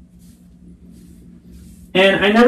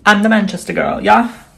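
a light attempt at a Manchester accent, a bit higher; 4 semitones higher than usual. Vlogger getting into character as the Manchester girl, mock accent. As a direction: slip into a Mancunian girl, half-convincing. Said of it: "let me get into character".

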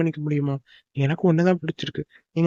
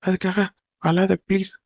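pleading, halting and slightly raised; anxious consoling; 2 semitones higher than usual. Acted. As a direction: beg a crying loved one to stop, drawing out the words. Boyfriend consoling his crying girlfriend. (பதறி, கெஞ்சி ஆறுதல் சொல்லும் குரல்)

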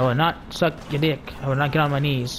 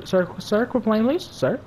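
higher-pitched, rising plea; mock pleading; 7 semitones higher, slower than usual. Player begging downed man to stop playing, mock plea. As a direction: plead with him, climbing in pitch.

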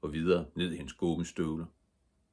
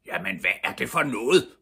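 loud, indignant question climbing in pitch; shouting father; 5 semitones higher, 6 dB louder than usual. A narrator's reading. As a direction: scold him, rising to a yell. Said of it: "råbte hans far". (højlydt forarget råb)

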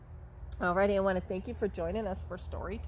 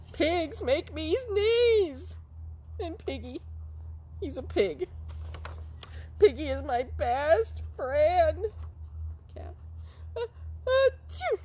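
high, slow, louder puppet voice; high squeaky puppet complaint; 8 semitones higher, 5 dB louder, slower than usual. Pretend. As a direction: whine it to the doctor, then sneeze.

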